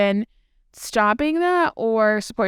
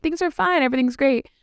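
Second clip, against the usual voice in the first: a lightly higher fake-cheery imitation; mock cheerful; 4 semitones higher than usual. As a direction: brush it off as fine, mock bright. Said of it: "they always start off with".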